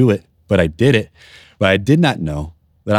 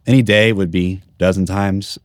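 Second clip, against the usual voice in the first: ordinary talk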